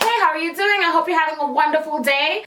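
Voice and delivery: sweetly scripted customer service voice. Shown as a demonstration. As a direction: greet like a chipper customer service rep. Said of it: "my customer service voice".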